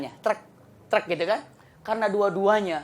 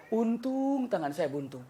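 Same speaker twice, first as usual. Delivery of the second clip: relieved king; 8 dB quieter, slower than usual. Acted. King's relieved confession.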